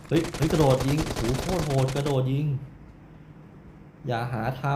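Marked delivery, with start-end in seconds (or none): 0.1-2.5 excited gamer outburst. Real, not acted. Enemy jump-shoots him.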